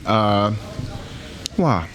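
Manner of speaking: talking while chewing; mouth full. Shown as a demonstration. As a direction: speak around a bite of food. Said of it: "let you hear me talk with my mouth full".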